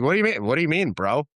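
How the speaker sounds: acted indignant disbelief; retold defensive protest. Retold defensive reply to mentor.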